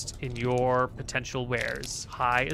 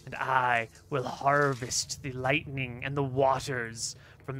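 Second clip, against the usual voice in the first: grand sorcerer. Acted. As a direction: savour the grand plan, slowing as it builds. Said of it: "and then she goes".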